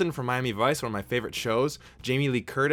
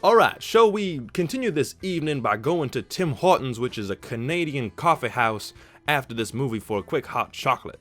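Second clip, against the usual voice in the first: put-on Daniel Craig Southern accent; 2 semitones higher, 4 dB louder than usual. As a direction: ham up a genteel Southern detective's accent. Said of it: "it's a great voice to imitate".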